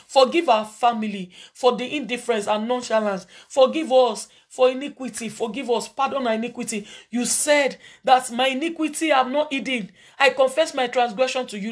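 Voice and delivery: intercessory prayer to the congregation; fervent prayer. Acted. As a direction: plead for forgiveness before God. Leads congregation in repentance prayer.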